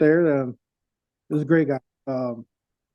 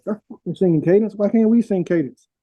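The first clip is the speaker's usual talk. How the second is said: higher-pitched mock protest; raised-pitch imitation of a griping soldier; retold indignant private; 6 semitones higher than usual. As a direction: complain like an aggrieved private, imitated. Retold private protests about cadence.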